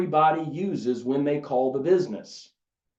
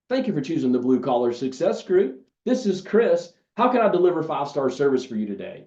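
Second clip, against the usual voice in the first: demo phone greeting. Shown as a demonstration. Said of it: "It sounds a little something like this".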